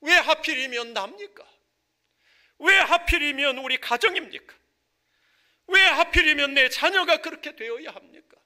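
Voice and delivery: loud, high-pitched demand for answers; preacher acting out an aggrieved, insistent "why me?"; protesting to God. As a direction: cry out the complaint like someone arguing with God. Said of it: "이렇게 따지는 경우도 있어요".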